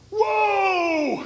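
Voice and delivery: high, loud startled cry of surprise; shocked whoa. Retold or imitated. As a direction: gasp it out, stunned. Guy shocked to girlfriend.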